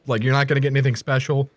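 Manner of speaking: talking through a mouthful; words round a bite of food; chewing while talking. Real, not acted. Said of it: "I apologize for my eating".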